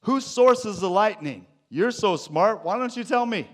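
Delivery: loud, challenging voice of God, rising high; booming questions from God, half-mocking; God questioning Job. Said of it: "He asks things like".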